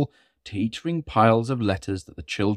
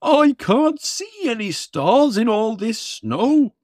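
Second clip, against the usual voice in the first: higher, slow flustered Santa; blustering Santa; 11 semitones higher, 3 dB louder, slower than usual. Acted. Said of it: "Santa blustered".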